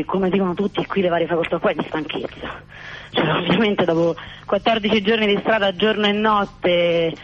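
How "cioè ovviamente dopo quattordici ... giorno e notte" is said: breathless, between gasps; catching breath while talking. Real, not acted. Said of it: "Quindi scusate il fiatone".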